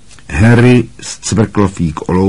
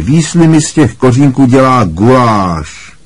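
high-pitched tattling to the teacher; Malfoy's drawl; 6 semitones higher, 4 dB louder than usual. A narrator's reading. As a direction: tell on a classmate in a high voice. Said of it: "protáhl Malfoy". (vysokým hlasem, žalobníčkovsky)

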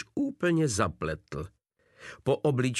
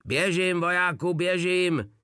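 pitched-up mock yell, a touch frantic; desperate shriek; 7 semitones higher, 3 dB louder than usual. A narrator's reading. Blac screams at Drobeček, a hammed-up desperate yell. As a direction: shriek the order in frustration. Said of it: "ječel zoufale Blac".

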